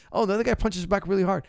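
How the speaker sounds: high whiny mock complaint. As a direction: whine like a naive fighter. Mocking clueless fighter.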